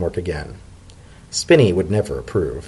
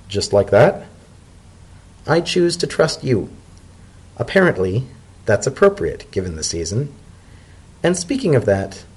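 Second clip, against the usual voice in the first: zebra elder. Acted. Macaulay closes the meeting.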